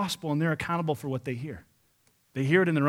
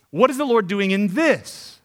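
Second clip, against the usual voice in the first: louder and slow, pressing each word; slow, ringing preacher's challenge; emphatic question; 4 semitones higher, 6 dB louder than usual. Acted. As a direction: proclaim the question to the crowd. Repeated key question, loud take.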